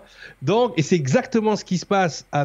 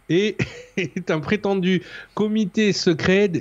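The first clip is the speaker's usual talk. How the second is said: stifled giggles; 2 semitones higher than usual. Real, not acted. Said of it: "arrête de rigoler".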